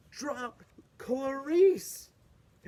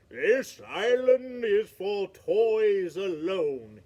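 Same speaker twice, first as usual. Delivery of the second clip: stern island king; 5 dB louder, slower than usual. Acted. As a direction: lay down the law kindly but firmly. Island king refuses them.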